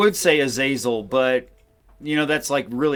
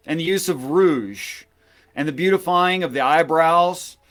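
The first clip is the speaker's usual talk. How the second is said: scripture reading. Acted. Reads Book of Enoch aloud.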